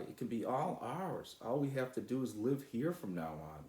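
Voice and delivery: put-on a boy carried away with plans, peaking on the last line; excited dreaming. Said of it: "exclaimed Sly".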